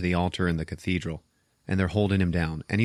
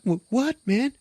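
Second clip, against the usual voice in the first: high, stammered bewildered question; mock startled reply; 14 semitones higher than usual. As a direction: play caught out and confused. Jenny's startled reply, acted.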